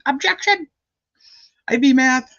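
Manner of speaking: very high, punchy Southern "Objection!"; Diener impression. Repeating the Diener courtroom objection for chat, high Southern twang. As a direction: snap out an objection like a courtroom lawyer, with a Southern lilt. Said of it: "That was my Diener impression".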